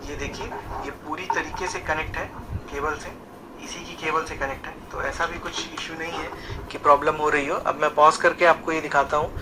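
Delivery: like the same talk heard back through a small phone speaker; played back from phone recording. Shown as a demonstration. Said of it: "वो इस पे सुनेंगे".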